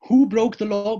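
high, loud question hurled at the congregation; rhetorical cry. Real, not acted. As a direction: call it out to the hall.

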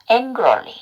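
"angrily" with an ng, final Y as ee; model pronunciation. Shown as a demonstration. Teacher sums up the letter sounds, slow model "angrily". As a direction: slowly model "angrily" as eng-geo-li. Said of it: "Y는 이 발음".

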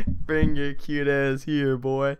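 slow and loud, dragging out each word; hammed-up creepy man. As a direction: savour the line like a leering creep. Repeating friend's creepy line, laughing.

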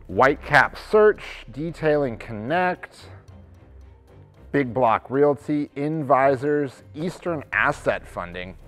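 measured reading of names; list announcer. Real, not acted. Host reading out a list of companies, announcing. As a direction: announce each company name evenly.

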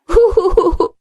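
high, hooting "hoo-hoo" laugh; demonstrated laugh. Shown as a demonstration. Teacher shows children a funny laugh after a joke, hooting. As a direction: put on a short, falling, owlish hoot of laughter. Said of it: "સૂચના મુજબ હસતા જઈએ".

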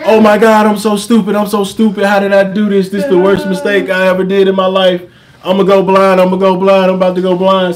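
high-pitched frantic panic, imitating her; panicked retelling. Boyfriend imitates girlfriend panicking over glue in her eye, high and frantic. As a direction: wail it like someone sure they're going blind. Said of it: "it's like she's panicking, going crazy".

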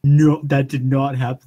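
emphatic, loud denial; loud disbelief. Real, not acted. Friend watching hat clip through wall, loud disbelief. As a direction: refuse to believe it, punching the words.

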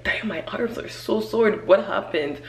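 hushed, breathless whisper on waking; whispered groggy complaint. Retold or imitated. Waking up sore after moving day, whispering. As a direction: whisper it like you just woke up sore. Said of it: "I woke up, I was like".

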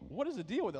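loud, high exasperated plea; exasperated outburst. Retold or imitated. Venting to his therapist, exasperated and loud. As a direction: throw up your hands at the therapist.

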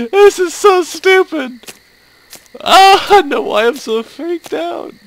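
high, loud, laughing through it; breathless amused complaint; laughing exasperation. Real, not acted. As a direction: still giggling from the scare. Laughing after scare.

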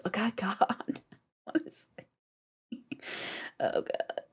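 hushed, awed whisper. Real, not acted. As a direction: whisper under her breath. Whispering over music.

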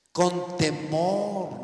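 TEMOR stretched very long; stress on TEMOR. Shown as a demonstration. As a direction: draw out "Con temor" with weight on TEMOR. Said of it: "no se puso de alevoso".

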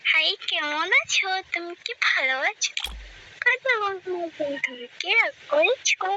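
sweet coy greeting. Shown as a demonstration. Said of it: "এবার ঠিক আছে".

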